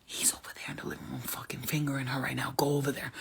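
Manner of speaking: ghostly whispered tip-off. Retold or imitated. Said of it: "They're like".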